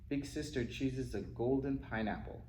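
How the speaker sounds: ordinary delivery, nothing marked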